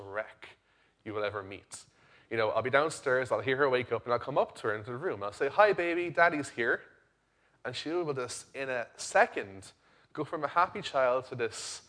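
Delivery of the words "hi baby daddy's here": higher, louder daddy greeting; retold parental greeting. Father coming into his daughter's room after a nap, retold parental greeting. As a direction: call cheerily to a little one, re-enacted.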